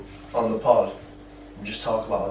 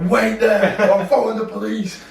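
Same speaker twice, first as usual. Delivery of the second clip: high, loud call to stop; raised-voice mock warning; retold shout; 10 semitones higher, 6 dB louder than usual. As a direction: holler it like an angry car owner. Acts out owner shouting after him.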